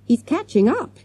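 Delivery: high-pitched, gasped warning; gasping. A narrator's reading. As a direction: gasp it out while hurrying. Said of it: "he gasped".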